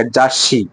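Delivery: जाशी with a clear sh sound, ja-SHI; जाशी, sh sound on the last syllable; shi not si. Shown as a demonstration. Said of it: "सी नहीं, शी आएगा".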